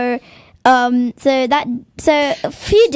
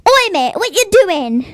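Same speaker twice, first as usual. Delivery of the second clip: mock rude driver; 6 semitones higher, 3 dB louder than usual. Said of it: "the other person's getting in my lane".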